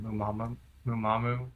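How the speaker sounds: "Mumamu" repeated as moo-mah-moo, like memorizing it; own old pronunciation. Shown as a demonstration. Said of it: "I always kept saying it".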